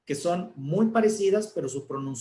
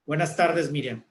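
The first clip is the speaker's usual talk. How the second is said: angry greeting. Shown as a demonstration. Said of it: "Si yo estoy enojado".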